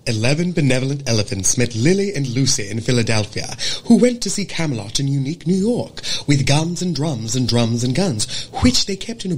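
dialect warm-up passage read aloud; acting-school diction drill in General American; crisp General American demo. Shown as a demonstration. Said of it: "General American".

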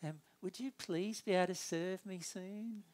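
sugary, put-on politeness; mock-sweet customer asking for service; fake polite. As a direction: smile through gritted irritation. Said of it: "put a smile on my face and go".

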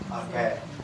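Yamaguchi-style あけ, ai merged into ee; dialect vowel fusion. Shown as a demonstration. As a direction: end あけ on one long "ee". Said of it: "あけという発音なんですね".

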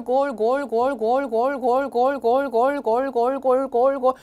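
commentary rattled off in one breath; rapid-fire Messi and goal chant without pausing; all in one breath. Shown as a demonstration. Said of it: "그분이 이걸 한숨에 읽더라고요". (숨 한 번에 몰아치는 중계)

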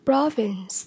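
"Province" stressed on PRO; stress on first syllable. Shown as a demonstration. Teacher modelling vocabulary for learners, "Province" stressed on PRO. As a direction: hit PRO in "Province", lighter vince. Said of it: "nhấn âm một".

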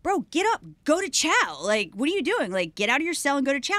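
exasperated order. Retold or imitated. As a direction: retell nagging a stubborn inmate to move. Exasperated officer ordering inmate.

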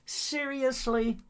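high, slow, incredulous Seriously; disbelieving groan. Real, not acted. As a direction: drag it out in disbelief. War ends before it began.

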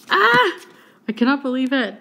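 high loud squeal of disbelief; thrilled squeal. Real, not acted. Fan getting her favourite character, shrieking with joy. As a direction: shriek with delight.

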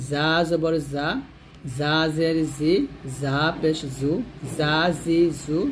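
"জা" as a thin, buzzing z; thin whistling "জা". Shown as a demonstration. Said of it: "শীর্ষ পাতলাভাবে আদায় করতে হবে".

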